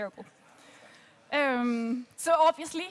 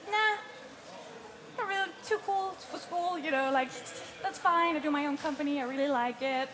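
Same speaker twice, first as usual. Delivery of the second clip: slacker attitude; 2 semitones higher than usual. Retold or imitated. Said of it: "So there's an attitude".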